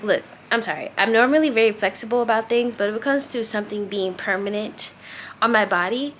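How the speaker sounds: calm but unbending; calm, firm explanation. Retold or imitated. Customer telling tattoo artist she won't be flexible, calm and firm. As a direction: set a firm boundary without yelling. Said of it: "I'm talking to him like this, and I'm very calm".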